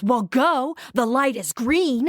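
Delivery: impatient snap at a stopped driver; man at the light retold, mildly irritated; retold angry retort. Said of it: "He's still really angry".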